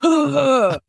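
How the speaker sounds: action-figure grunts as an impersonation; Chris Maloney. Acted. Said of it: "do your Chris Maloney impersonation".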